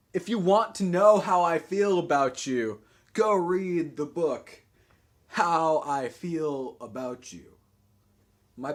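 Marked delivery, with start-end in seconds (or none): 0.1-7.5 emphatic, slowing declamation; poetry reading. Acted. Poet tells someone to go read the book, slow declaiming. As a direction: draw out the final title word by word. Reads own poem aloud.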